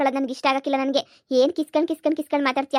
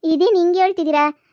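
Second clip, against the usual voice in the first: louder, higher shocked cry; stunned woman jilted by the man she trusted; shocked outburst; 4 semitones higher, 5 dB louder than usual. Acted. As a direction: blurt it out in disbelief.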